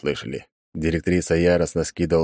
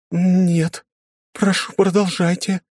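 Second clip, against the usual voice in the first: sultry voice; 13 semitones higher, slower than usual. Acted. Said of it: "томным голосом произнесла она".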